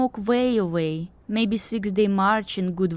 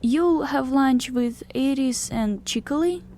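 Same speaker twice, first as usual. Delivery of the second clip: lightly voiced harpy's higher hopeful question; pleading; 13 semitones higher, slower than usual. A narrator's reading. Harpy asks Yule to join lunch, gently pleading. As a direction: ask as if adding an unspoken please. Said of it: "a tone that tied on a please".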